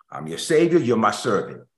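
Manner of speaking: commanding, lordly claim. Pretend. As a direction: speak down to a servant. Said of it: "That would take a different tone".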